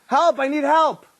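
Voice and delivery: half-performed frantic call for help; retold scream for help. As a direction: act out the panicked husband yelling. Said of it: "He's screaming".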